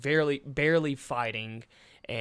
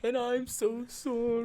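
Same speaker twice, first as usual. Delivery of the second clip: high mock Brooklyn voice; hammy Brooklyn accent, pitched up; Steven Seagal impression; 10 semitones higher than usual. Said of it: "Steven is laughably bad with his dialogue".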